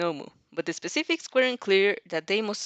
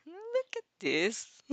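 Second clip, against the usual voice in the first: excited squeal; 10 semitones higher, 6 dB quieter, much slower than usual. Real, not acted. Showing fan art, squealing.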